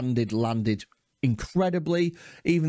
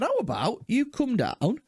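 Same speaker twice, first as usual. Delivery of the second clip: sarcastic challenge; 11 semitones higher than usual. Retold or imitated. Challenging the rude older comic.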